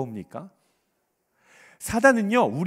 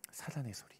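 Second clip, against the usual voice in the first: much softer, breath-only echo; hushed whisper; 5 semitones lower, 16 dB quieter than usual. Real, not acted. Preacher repeating Satan's voice to congregation, whispered. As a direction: let it sink to a secretive whisper.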